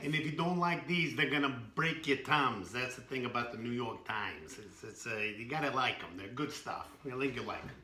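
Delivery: lightly put-on New York accent; tough-guy New York accent, half-hearted. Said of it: "It's my best New York accent".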